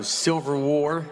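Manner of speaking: "Silver War" for "Civil War", slowly; mispronunciation. Shown as a demonstration. Comic demonstrating how he mangles the name, slow and deliberate. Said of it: "Instead of civil, I go".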